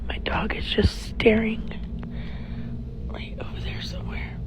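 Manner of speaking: teary, scared whisper; teary-eyed. Real, not acted. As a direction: whisper through watering eyes. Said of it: "my eyes are watering so bad".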